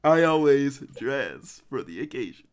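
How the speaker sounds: slow, lightly theatrical villain line; the Master impression. Fan performing a second movie quote after praise, light impression. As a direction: draw it out with a touch of camp grandeur. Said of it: "That's a good impression".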